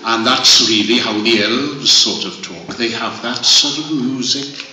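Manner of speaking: lilting up-and-down Welsh accent. Shown as a demonstration. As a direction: let the Welsh music carry the voice. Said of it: "in a funny way like that".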